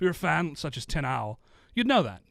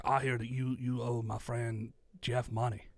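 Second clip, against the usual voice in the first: put-on failed Italian accent; 5 dB quieter, slower than usual. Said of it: "I can't do an Italian accent".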